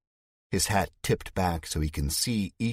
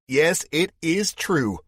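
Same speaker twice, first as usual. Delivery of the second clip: slow solemn confirmation; 11 semitones higher, 6 dB louder, slower than usual. Acted. Leader confirming accusation solemnly.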